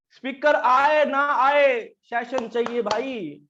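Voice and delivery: drawn-out, slow demand; mock insistent order. Institute ordering the branch to hold a session, mock insistent. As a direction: stretch it out like a mock decree, starting loud.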